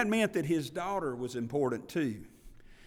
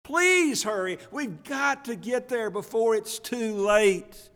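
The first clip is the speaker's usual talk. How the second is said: high, loud, frantic begging; urgent pleading; 6 semitones higher, 7 dB louder than usual. Retold or imitated. Father begging Jesus to hurry to his dying daughter, frantic plea. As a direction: cry out like a father racing time. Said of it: "Don't you hear the hurry in his voice?".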